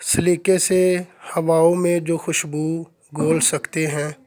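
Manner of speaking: lightly recited Urdu poem; poem recitation. Acted. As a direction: savour each line like a couplet. Recites closing Urdu verse.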